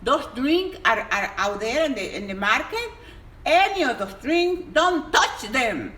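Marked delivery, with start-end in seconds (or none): 3.5-5.9 bang out each word so they listen; emphatic warning. Real, not acted. Telling viewers to avoid sugary drinks, a slow emphatic shout.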